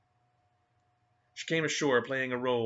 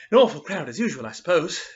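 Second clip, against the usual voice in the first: disparaging; 5 semitones higher, 10 dB louder than usual. Acted. Tim scorning the arriving steamer passengers, loud disparaging sniff. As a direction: sneer at the crowd. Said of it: "he remarked disparagingly".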